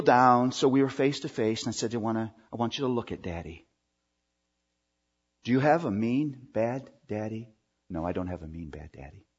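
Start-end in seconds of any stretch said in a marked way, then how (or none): 1.9-7.5 put-on soft, tender questions to a small child; soft daddy asking his upset child; gentle father to child. Father kneels to reassure child. 7.9-9.3 very soft, lower little reply; a hint of a child saying no; small child's answer. Child answers father's question.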